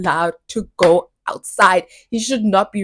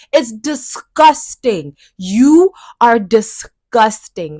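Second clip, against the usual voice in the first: slow, loud condemnation; sickened and scornful; disgusted; 5 dB louder, much slower than usual. Real, not acted. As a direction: lean on each syllable in disgust. Condemning abusers.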